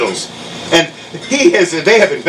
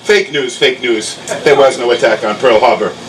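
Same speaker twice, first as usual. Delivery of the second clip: Donald Trump; 6 semitones lower than usual. Acted. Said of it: "And Trump says".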